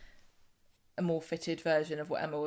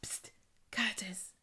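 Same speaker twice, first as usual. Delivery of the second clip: slow stage whisper; drawn-out, unvoiced call to someone nearby; imitating Craig; 10 dB quieter, slower than usual. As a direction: hiss for attention, secretively. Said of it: "who's like".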